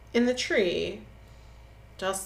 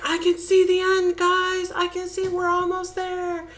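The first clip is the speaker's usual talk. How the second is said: high, excited calling-out; retold excitement; 12 semitones higher, 3 dB louder than usual. Luke calls to his friends from the hill, excited. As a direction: call back to the group, acting thrilled. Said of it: "He's all excited".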